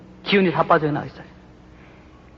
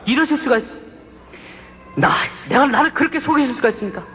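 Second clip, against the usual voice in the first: pitched-up, pleading challenge; higher accusing question to God; protesting to God; 6 semitones higher than usual. Retold or imitated. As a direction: demand an answer from God, half in tears of frustration. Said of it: "그렇게 따졌어요".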